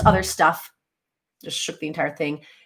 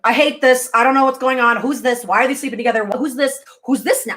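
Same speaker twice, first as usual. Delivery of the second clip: mock-baffled complaining, pitched up; frustrated confusion; 4 semitones higher than usual. Acting out her frustrated first viewing.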